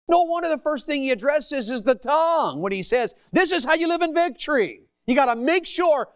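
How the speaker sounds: high-pitched, emphatic declaration; impassioned preaching. Real, not acted. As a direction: proclaim it to the congregation. Preacher drives point home to congregation.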